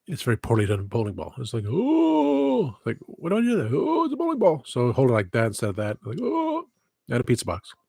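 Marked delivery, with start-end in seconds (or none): 1.7-2.8 very high, drawn-out "ooh"; hammed-up falsetto wonder; mock amazed oh. Reacting to a bowling ball, mock amazed. 3.1-4.6 very high, hammed-up wonder; mock amazement. Reacting to a bowling ball, mock amazed. 6.2-6.7 very high, drawn-out "ooh"; hammed-up falsetto wonder; mock amazed oh. Reacting to a bowling ball, mock amazed.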